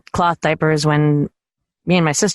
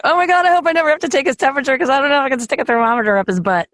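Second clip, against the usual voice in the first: mock horror; 8 semitones higher, faster than usual. Retold horror at thermometer.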